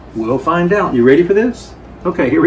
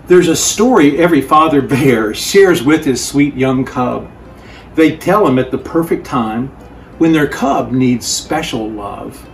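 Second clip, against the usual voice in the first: story narration. A narrator's reading. Reads picture book aloud.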